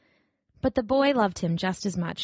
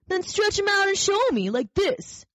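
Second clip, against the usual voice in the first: taunting wild rabbit; 12 semitones higher than usual. A narrator's reading. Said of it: "said the wild rabbit".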